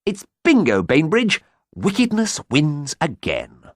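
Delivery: high, loud villainous glee; triumphant gloating. A narrator's reading. Schemer tells her brother wickedness wins, high gloating triumph. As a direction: crow it, slowing on the last words. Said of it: "with a triumphant smile".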